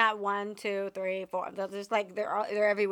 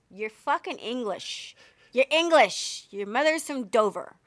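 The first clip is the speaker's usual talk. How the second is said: angry mom scolding, louder; nagging mom; 7 dB louder than usual. Retold or imitated. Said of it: "an angry mom voice".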